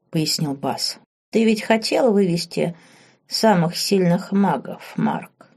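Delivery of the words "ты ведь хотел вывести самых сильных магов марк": lightly voiced old woman; a hint of an old crone asking slyly; understated old witch voice; ordinary old woman's voice. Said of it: "Обычным старушечьим голосом произнесла ведьма".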